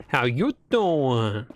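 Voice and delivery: slow, drawn-out flirty greeting; Joey Tribbiani impression. Streamer imitating a sitcom flirt, slow and drawn-out. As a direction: stretch it out like a smooth pickup line. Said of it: "my best Joey Tribbiani impression".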